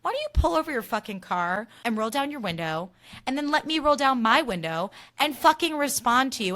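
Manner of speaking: ranting back at a rude driver; imagined angry retort. Retold or imitated. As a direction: tell off the driver who fled. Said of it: "it made me so mad".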